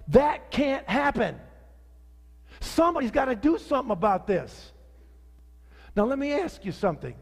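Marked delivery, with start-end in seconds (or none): 0.1-4.7 mildly heated, emphatic protest; retold anger. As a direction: relive being fed up, punching the words. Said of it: "I started to get really mad".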